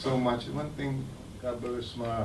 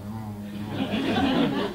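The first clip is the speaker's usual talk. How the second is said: put-on childlike hum; 2 semitones lower than usual. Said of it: "like a normal child".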